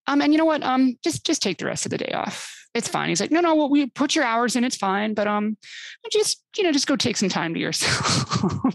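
the boss gently calming her down; placating boss. Retold or imitated. Imitating boss giving day off.

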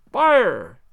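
loud, high yell of alarm; group yell of fire; shouted fire. A narrator's reading. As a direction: shout it like the house is burning. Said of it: "we all yelled".

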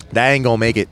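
a hint of Tennessee accent; Southern accent. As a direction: quote him in a mild Southern twang. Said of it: "Huge Southern accent".

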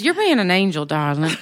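lightly imitated Southern sweet talk; Crosby. Quoting partner's endearment to friends, light Southern imitation. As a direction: slip into a mild Southern accent, settling on the last word. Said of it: "She's Southern".

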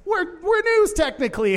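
high, mocking imitation of a self-important site. Mocking the site claiming to be news, high mock voice. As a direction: sneer it up high like a smug outlet.

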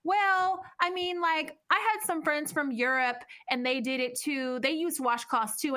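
quoting his wife. Retold or imitated. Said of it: "And she goes".

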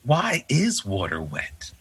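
a slow, hushed wondering whisper. Retold or imitated. Dad whispering a big question to his kids, slow and hushed. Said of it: "and then I'm like".

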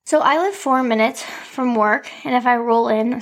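shallow breathing; slightly winded from the stairs. Real, not acted. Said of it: "sorry, I'm out of breath".

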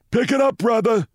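high-pitched, snapped order from a cop; snapping. A narrator's reading. Cop orders a dawdling driver at the light, snapping. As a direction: snap it like an impatient traffic cop. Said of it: "snapped a cop".

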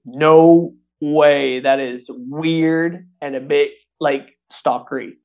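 drawn-out, slow refusal, loud at first; slow, emphatic mock disbelief; retold reluctance. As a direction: balk at it, stretching the words out. Balking at friend's advice, retold.

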